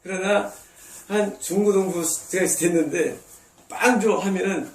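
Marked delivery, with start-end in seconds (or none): 3.7-4.2 put-on teen's loud demand. Teenager demanding bread, louder.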